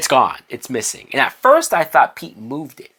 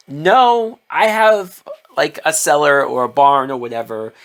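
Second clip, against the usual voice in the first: insistent protest; 2 semitones higher, 4 dB louder than usual. Retold or imitated. Pete insists to Clark it goes to his barn, loud and stubborn. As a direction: refuse him flat out, pushing back.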